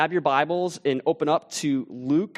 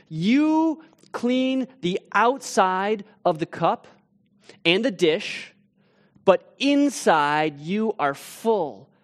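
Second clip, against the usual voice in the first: loud condemning rebuke; slower than usual. Acted. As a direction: denounce them slowly, letting it sink. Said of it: "in a loud voice".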